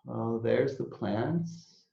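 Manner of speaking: slow relieved sigh and gentle observation; calm noticing. Shown as a demonstration. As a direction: settle into the room and name it gently. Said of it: "but I'm like".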